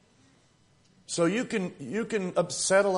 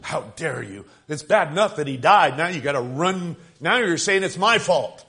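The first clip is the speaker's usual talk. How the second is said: mild mock outrage, rising louder to the end; horrified aunt; 5 dB louder than usual. Aunt at the dinner table retorts to her nephew, with mild mock outrage. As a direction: imitate the aunt's hurt indignation, lightly. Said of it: "My aunt was horrified".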